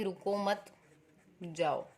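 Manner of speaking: "रुको मत" run together, then "जाओ" after a gap; no comma. Shown as a demonstration. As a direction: read "रुको मत जाओ" ambiguously, holding back "जाओ". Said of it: "यदि इसमें हम जो कॉमा है, पंक्चुएशंस नहीं लगाते हैं".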